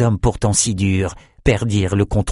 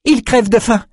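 Peretta's voice; 13 semitones higher, 3 dB louder than usual. A narrator's reading. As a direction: savour the word hungry. Peretta continues.

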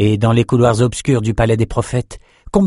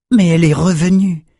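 higher, insistent voice on "Mais elle est revenue"; emphatic; 8 semitones higher, 4 dB louder than usual. A narrator's reading. Elsa points out the magic's return, high and emphatic on "revenue". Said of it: "souligna Elsa".

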